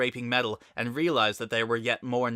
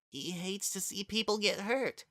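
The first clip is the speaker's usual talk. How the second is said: high, hushed and gentle; soft gentle voice; 9 semitones higher, 7 dB quieter than usual. A narrator's reading. Frisk gently tells Kara why Azrael stopped him, soft and high. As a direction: speak softly, as if to calm a hurt friend. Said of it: "Frisk's voice was as soft as ever".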